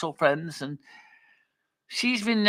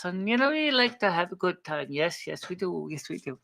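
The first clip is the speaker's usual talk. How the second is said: soft, milky Portuguese voice, fading quieter; soft silky voice; 4 dB quieter than usual. Shown as a demonstration. Demonstrating Cameron's voice to the others, soft and silky. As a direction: let it melt like molten chocolate, growing softer. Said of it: "Cameron's voice is a soft, silky".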